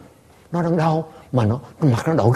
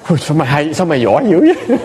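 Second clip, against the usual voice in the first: laughing praise; 3 semitones higher than usual. Retold or imitated. Teasing praise to the boy.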